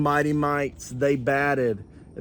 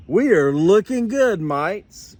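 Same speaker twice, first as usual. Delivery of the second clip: raised, louder cheer; Kevin crying out; 4 semitones higher, 5 dB louder than usual. Acted. Kevin cheering his team at practice, louder. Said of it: "cried Kevin".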